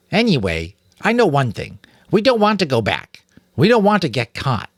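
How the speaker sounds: put-on high, eager young rat voice; a child telling what she half knows; chattering girl rat. A narrator's reading. Girl rat telling Mrs Frisbee about nim, high and eager.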